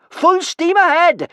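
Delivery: very high, slow, drawn-out shout; loud, high battle-cry of a command. A narrator's reading. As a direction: shout the order across a boat. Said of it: "shouted Kamikaze".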